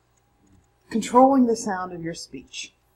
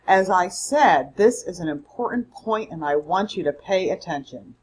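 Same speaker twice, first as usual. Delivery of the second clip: a little louder; 3 dB louder than usual. Shown as a demonstration. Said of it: "Notice I increased my volume a little there".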